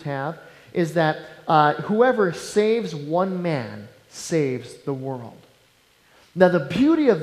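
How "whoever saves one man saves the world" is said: slow saying. Acted. Quotes Hebrew saying slowly.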